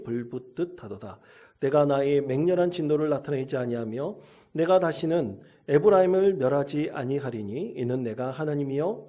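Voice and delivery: measured solemn Bible reading; scripture reading. Acted. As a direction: read the verses as holy text, steady and even. Pastor reads Hosea scripture aloud.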